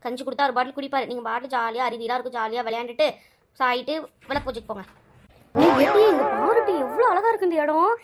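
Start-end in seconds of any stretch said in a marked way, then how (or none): 5.5-7.9 excited calling. Acted. Excited about the beautiful place.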